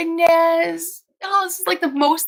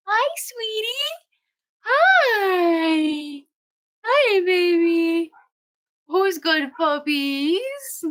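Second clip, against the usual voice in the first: high, slow sing-song to the puppies; 5 semitones higher, much slower than usual. Real, not acted. Greeting newborn puppies in high baby talk. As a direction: coo at them like babies.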